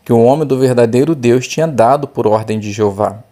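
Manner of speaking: measured Bible reading voice; scripture reading. Acted. Teacher reading the Bible text aloud to the class, measured. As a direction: read the passage clearly and evenly.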